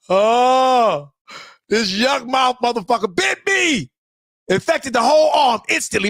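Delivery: hammed-up indignant cry; mock outrage. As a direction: exaggerate the horror of the bite.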